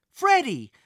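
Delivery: high, loud happy cry; joyful shout. Acted. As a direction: shout the name with joy. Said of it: "Thomas shouted with joy".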